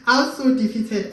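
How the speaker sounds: a laugh into "I was so defeated"; laughing at herself. Real, not acted. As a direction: laugh off the bad day.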